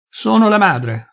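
high, slow, commanding declaration; imperious. A narrator's reading. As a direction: assert authority that allows no reply. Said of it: "rispose imperiosamente". (tono imperioso)

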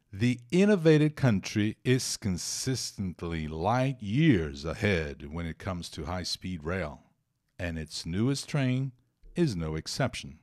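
measured teacher read-aloud; slow, deliberate reading of an English passage for students; slow careful English reading. Shown as a demonstration. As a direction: read the English text slowly and clearly. Reads English news passage.

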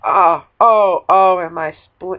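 shouted laughing wail; laughing cry. Real, not acted. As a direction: laugh through mock horror. Dismembered character.

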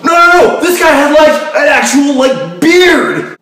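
very loud, high frantic shrieking; panicked screaming. Acted. Screaming about an intruder.

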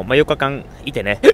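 talking through hiccups; hiccuping between words. Real, not acted. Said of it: "あー、しゃっくりが止まんない。".

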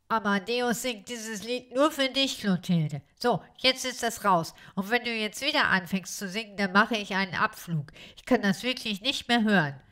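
a hint of an annoyed blackbird; lightly voiced grumpy bird. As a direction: blurt out the secret, fed up. Kalle voiced by reader.

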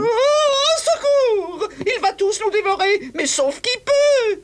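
laughing fake fright; hammed-up cry for help; mock panic. Panic as wolf threatens.

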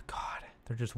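hushed whisper with a sigh. Real, not acted. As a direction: whisper so the mobs won't hear. Hiding from mobs at night.

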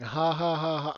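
loud, spelled-out "ha ha ha"; mock laughter. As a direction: laugh pointedly at the doubters, deliberately put on. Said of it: "I'm laughing".

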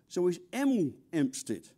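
Emel with no H sound; dropped H. Shown as a demonstration. Londoners dropping the H on Emel. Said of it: "they don't pronounce their H's".

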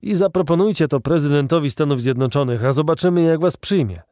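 a touch of defiant shout; calling out. A narrator's reading. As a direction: dare them mockingly, raising the voice. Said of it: "wołał J T Maston".

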